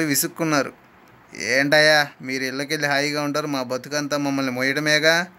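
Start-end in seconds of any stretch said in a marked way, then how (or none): 1.4-5.3 grumbling. Acted. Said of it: "విసుక్కున్నాడు driver".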